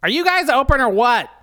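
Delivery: high, loud customer's call. Acted. Customer asking into the store, high-voiced call. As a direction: poke in with a high, drawn-up question. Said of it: "customers timidly poke their heads".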